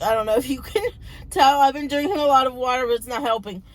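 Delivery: strained, worn-out voice; talking on a tired, failing voice; losing voice. Real, not acted. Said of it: "I'm losing my voice from talking so much".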